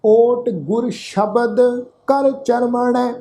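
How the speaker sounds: slow, measured Gurbani recitation; scripture recitation. Shown as a demonstration. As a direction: draw out each word of the verse, evenly paced. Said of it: "ਇਸ ਦਾ ਪਾਠ ਰਲ ਮਿਲ ਕੇ ਉਚਾਰਨ". (ਹੌਲੀ, ਠਹਿਰ ਕੇ ਗੁਰਬਾਣੀ ਪਾਠ)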